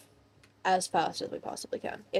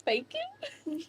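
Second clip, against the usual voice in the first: breathy high whisper; whispered thanks; 5 dB quieter than usual. Acted. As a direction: hush a thank you.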